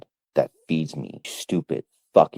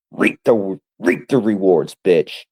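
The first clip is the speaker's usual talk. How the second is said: louder taunting repeat; 4 semitones higher, 4 dB louder than usual. Acted.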